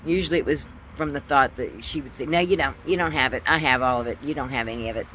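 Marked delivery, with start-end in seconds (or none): 2.2-5.1 insistent retort, retold; mother's arguing. Mother denies daughter's claim to money, arguing. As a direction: imitate a mother contradicting her child. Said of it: "and that's how she talked".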